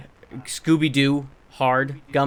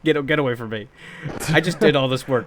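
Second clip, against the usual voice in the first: indignant telling-off; 5 dB louder than usual. Retold or imitated. Telling off coworker over gummies.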